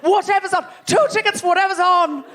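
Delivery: high, breezy ticket request; imitated tourist buyer. Comic quoting tourist at the box office, high imitation. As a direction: act out an easygoing tourist booking. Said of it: "you've said".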